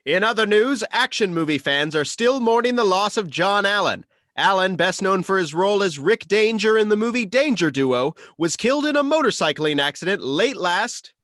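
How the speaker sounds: lightly voiced news anchor. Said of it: "my news anchor voice".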